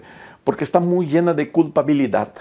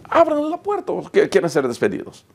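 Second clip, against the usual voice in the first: sharp, much higher command; mock order; 7 semitones higher than usual. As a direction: snap the order at the guards. Director orders guards.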